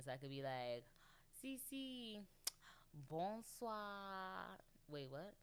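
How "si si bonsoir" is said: high, lilting mock-Italian voice; playful Italian accent. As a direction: show off pretend Italian in a raised voice. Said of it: "I'll be building my Italian".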